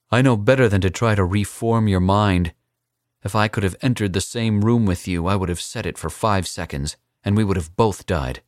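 put-on defiant young assassin. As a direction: throw the threat back in his face.

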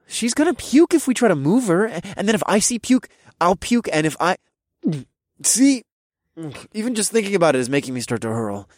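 put-on high, rushed drunk babbling; fake drunk. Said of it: "I quickly interrupted".

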